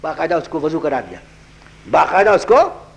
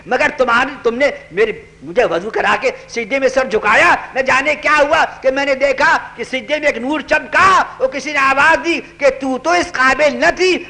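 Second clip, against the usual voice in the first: higher, tearful voice; raised, emotional confession, slowed in places; moved repentant woman; 5 semitones higher than usual. Acted. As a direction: speak as a sinner overcome with gratitude. Repentant woman answers, weeping.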